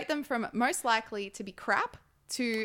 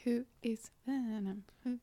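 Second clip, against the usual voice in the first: robot; 10 dB quieter than usual. Pretend. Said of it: "you robot?".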